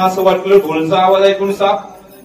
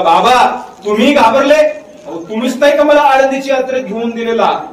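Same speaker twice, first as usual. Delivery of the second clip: put-on higher-pitched young son questioning his father; a hint of a little boy, pitched up; lightly voiced child; 5 semitones higher than usual. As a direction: lightly imitate a boy's surprised questioning. Boy addressing his crying father in story.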